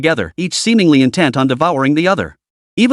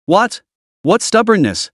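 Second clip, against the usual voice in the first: high, baffled double take; puzzled; 6 semitones higher than usual. Acted. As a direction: sound genuinely confused. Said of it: "was even more puzzled".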